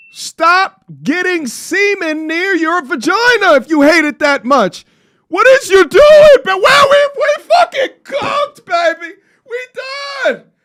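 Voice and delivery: very high-pitched screaming outburst. Ranting to listeners about this, the speaker is screaming. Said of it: "I'm sorry to be screaming like this".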